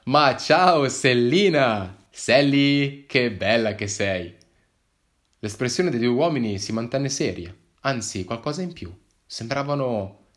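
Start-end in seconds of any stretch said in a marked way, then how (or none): 0.0-4.3 put-on loud, very slow, doting baby talk with a long Sally; cooing at a dog. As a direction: coo the dog's name fondly.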